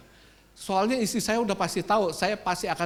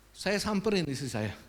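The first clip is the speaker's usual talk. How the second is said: usual speaking voice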